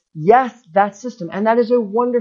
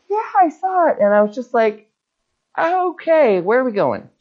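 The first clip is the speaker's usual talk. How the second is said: higher, eager imitation of himself; mild eager brightness, pitched up; retold excitement; 6 semitones higher than usual. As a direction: replay his own keen, raised voice. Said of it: "I was all excited".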